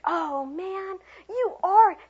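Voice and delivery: high, building gush; excited welcome. Shown as a demonstration. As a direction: greet the child with big enthusiasm. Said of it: "be like".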